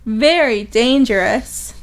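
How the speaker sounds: high, theatrical gossip voice; gossiping townsperson. Acted. Townsperson gossiping about Tonio, theatrically scandalised. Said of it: "got direct quote of the gossip".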